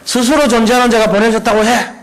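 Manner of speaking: preacher putting on God's voice. Retold or imitated. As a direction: proclaim it as God speaking from above. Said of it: "그러면서 또".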